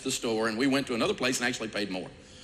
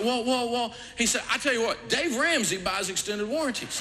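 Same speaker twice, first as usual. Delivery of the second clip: mock salesman; 11 semitones higher than usual. Salesman quoted protesting.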